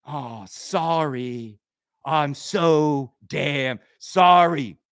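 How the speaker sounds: very slow, mock-sorry drawl; sarcastic apology. Mocking the audience's hurt feelings.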